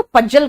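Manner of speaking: पजल with a j, "pujjal"; imitated mispronunciation. Quoting a fellow teacher's mistake, mispronounced j. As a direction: quote a colleague saying पजल as pujjal. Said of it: "पजल नहीं बोलना".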